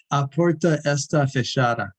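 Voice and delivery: Portuguese sentence in a foreigner's accent; non-native Portuguese accent. Shown as a demonstration. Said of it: "not gonna say it with the right accent".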